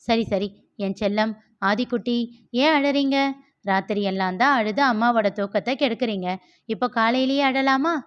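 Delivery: lightly voiced mother soothing her crying baby; cooing to baby. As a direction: gently chide a little one, lilting upward in places. (அழும் குழந்தையை லேசாகக் கொஞ்சும் அம்மா)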